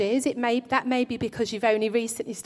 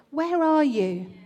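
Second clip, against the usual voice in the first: slow, searching call to Adam; lightly voiced God calling in the garden; slow calling question; 2 semitones higher, slower than usual. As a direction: call out slowly as if seeking him. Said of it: "a similar question God asked to Adam".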